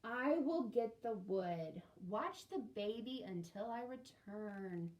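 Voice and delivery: loud, slow, resigned; a patient sister giving in; weary big sister. Acted. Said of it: "Sadie sighed".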